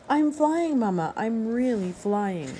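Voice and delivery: thrilled gosling flying; excited cry. Acted. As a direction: shout to mama, then savor it.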